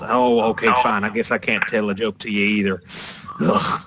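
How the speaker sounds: put-on lightly exasperated girl giving up; mild huff ending in a groan; tiefling girl. Tiefling girl whose joke fell flat, mildly exasperated. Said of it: "between the tiefling girl".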